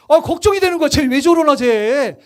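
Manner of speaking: worried reaction. Retold or imitated. Acting out worry at loud praying.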